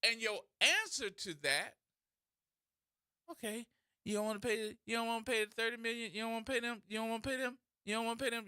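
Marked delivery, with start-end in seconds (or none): 3.3-8.5 fast repetitive monotone patter; auctioneer imitation. Comedian mimicking an official's answer as fast auctioneer patter. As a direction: rattle it off like bidding. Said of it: "You sound like a daggone auction again".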